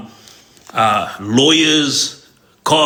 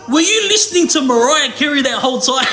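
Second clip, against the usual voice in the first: laughing quote; 11 semitones higher than usual. Retold or imitated. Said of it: "And he goes".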